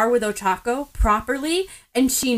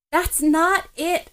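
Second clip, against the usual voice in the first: argumentative; 7 semitones higher, slower than usual. A narrator's reading. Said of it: "more argumentatively than most people".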